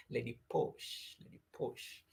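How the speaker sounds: slow whispered Lady Posh, fading to nothing; hushed, slow admiring whisper; savoring whisper. Shown as a demonstration. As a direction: whisper the name as if it were luxurious. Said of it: "It just sounds nice, Lady Posh".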